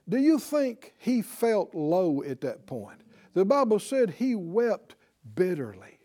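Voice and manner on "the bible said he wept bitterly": usual speaking voice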